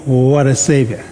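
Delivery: "What a Savior" asked like a question; gently questioning "What a Savior". Shown as a demonstration. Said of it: "put that in the form of a question".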